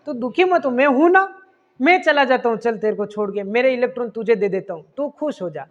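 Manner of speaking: lightly voiced reassurance, gentle; comforting friend. A hint of a kind friend saying don't worry. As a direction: hydrogen consoles the sad oxygen, lightly reassuring. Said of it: "वो क्या कहेगा".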